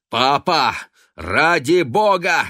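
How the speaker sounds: loud, high pleading shout. A narrator's reading. Son shouting at his wailing father, loud. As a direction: yell at him to stop. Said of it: "крикнул Юджин".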